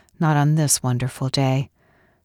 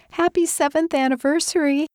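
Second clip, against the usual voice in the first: bright, much higher cheerful call; yelled surprise; 13 semitones higher than usual. A narrator's reading. Friends springing a party on Kathy, high cheerful shout. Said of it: "they'd yelled".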